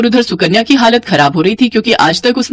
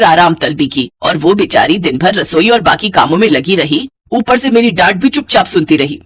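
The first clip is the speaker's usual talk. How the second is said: lower-pitched, understated telling-off; scolding mother-in-law; 4 semitones lower than usual. Acted. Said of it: "सरला लगातार सुकन्या को डांट रही थी".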